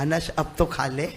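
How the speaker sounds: soft, gentle coaxing; lovingly. Acted. The Prophet gently urging the hungry companion, softly. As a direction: coax him tenderly to eat. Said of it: "بڑے پیار سے کہا".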